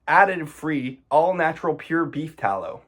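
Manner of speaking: pointed sarcastic recital; sarcastic reread. Shown as a demonstration. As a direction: read it back like it's absurd. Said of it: "let me read that again for you".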